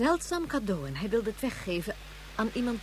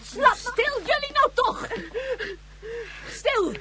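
very high, loud hush-up; 12 semitones higher, 4 dB louder, slower than usual. Acted. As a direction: demand silence at once. Mother silences the children.

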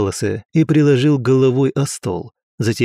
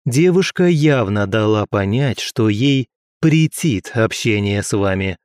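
level voice. Acted. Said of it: "Ровным голосом проговорил я".

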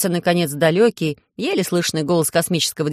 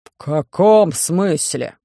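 грозный медленный вопрос Громозеки, громче и медленно; давит голосом, недоумевая; грозно; 3 dB louder, much slower than usual. Acted. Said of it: "спросил грозно Громозека". (Громозека грозно переспрашивает диспетчера)

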